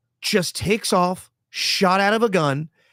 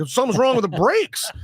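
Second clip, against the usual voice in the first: put-on lying kid excuse; 8 semitones higher than usual. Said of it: "he's like".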